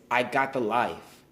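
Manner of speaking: slow, weighty stress on "the life". Shown as a demonstration. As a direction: draw out "the life" with emphasis. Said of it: "Emphasis on the life".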